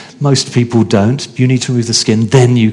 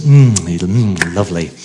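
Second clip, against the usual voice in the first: savouring enjoyment; 4 semitones lower, slower than usual. Pretend. Preacher imagining eating a ripe blackberry, savouring. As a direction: savour it as if tasting something sweet.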